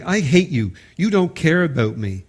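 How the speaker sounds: put-on hurt teen lashing out at parent; angry teen. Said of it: "And a teen saying".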